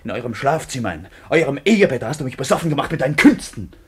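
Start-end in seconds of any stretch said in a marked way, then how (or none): 0.9-3.7 angry. Acted. Quarrel, accusing her.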